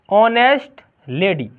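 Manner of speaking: honest said with a silent h, as onest; silent h demo. Shown as a demonstration. Teacher to pupils, honest with a silent h. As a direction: stretch honest slowly, no h sound. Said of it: "इसका मतलब होता है ऑनेस्ट".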